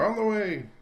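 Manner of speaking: high, loud call across the room; shouting back. A narrator's reading. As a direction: shout it back over the crowd. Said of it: "shouted back to her".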